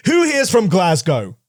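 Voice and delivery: slow, put-on posh presenter voice; lightly aping Clarkson asking the crowd; Jeremy Clarkson. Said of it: "Jeremy Clarkson was just like".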